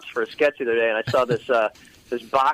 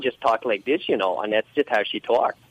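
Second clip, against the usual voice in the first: lightly voiced Minnesota cartoon mom; Minnesota accent; 2 semitones lower than usual. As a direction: talk with a hint of Minnesotan. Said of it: "do the Minnesota accent".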